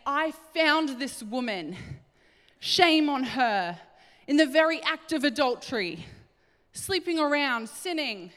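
lightly voiced, indignant Pharisee; accusing holy leader. Voicing accusing Pharisees before Jesus.

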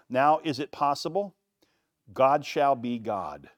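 David vows to leave it to God, emphatic. Acted. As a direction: drive each claim home. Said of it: "David added emphatically".

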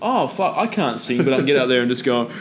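mock a wannabe singer who can't sing; mock bad grunge singer. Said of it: "I had to listen to dudes going".

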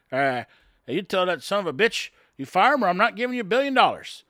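imitating a boss laying down the law; retold threat.

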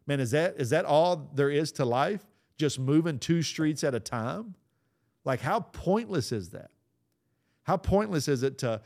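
rising conviction. Real, not acted. Realization while driving, preaching.

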